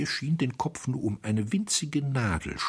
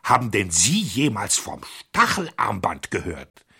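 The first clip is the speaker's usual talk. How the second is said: shouting; 5 dB louder than usual. Acted. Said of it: "schrie Flambeau".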